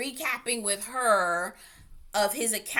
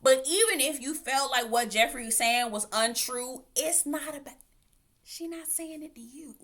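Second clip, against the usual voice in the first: sassy lecture; 4 semitones higher than usual. Retold or imitated. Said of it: "I'm just thinking to myself".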